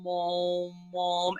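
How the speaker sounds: resonant mom exercise pushed up and out; forward resonant mom. Shown as a demonstration. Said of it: "we do this exercise where we go mom".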